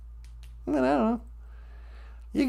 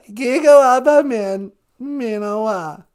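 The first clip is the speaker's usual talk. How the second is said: tearful Ojibwe; 4 dB louder than usual. Acted. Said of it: "take a little of the cry out of it".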